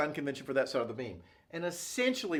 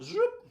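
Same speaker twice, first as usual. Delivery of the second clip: cutting sound effect. Shown as a demonstration.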